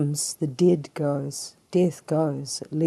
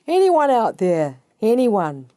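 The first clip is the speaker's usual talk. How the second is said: raised voice hailing a crowd; calling for attention; 4 semitones higher, 5 dB louder than usual. Acted. Preacher as Jesus calling to the multitude, calling out. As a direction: call out to whoever might hear. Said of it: "Getting their attention. He said".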